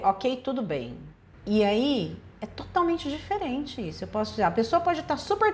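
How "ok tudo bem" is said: dry, low, clipped okay; curt and dismissive. Shown as a demonstration. Reader hearing the text as dismissive, curt and cold. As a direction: read it as cold disdain. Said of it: "Eu posso ler".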